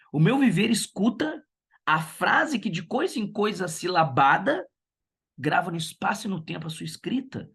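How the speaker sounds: measured poetry reading, lingering on "viver"; a teacher reciting a poem to her class. Acted. Teacher reads poem aloud.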